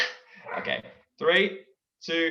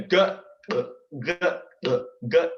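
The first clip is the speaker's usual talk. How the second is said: demo gulp sound; 4 semitones higher, much faster than usual. Shown as a demonstration. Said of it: "So if you go".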